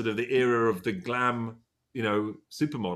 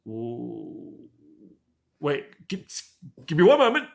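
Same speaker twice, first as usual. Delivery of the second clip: flustered stalling; 3 semitones higher, 4 dB louder, slower than usual. Retold or imitated. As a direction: caught off guard, stall then yelp. Stunned reply to a singer.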